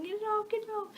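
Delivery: high mock panicked yell; retold panicked yell. Girl with a tick on her shoulder, high panicked mock yell. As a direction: replay yourself yelping at the bug. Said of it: "I was yelling".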